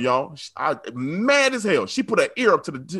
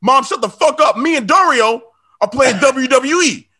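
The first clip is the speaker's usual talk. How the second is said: put-on bratty kid yelling; 6 semitones higher, 5 dB louder than usual. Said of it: "He, he goes".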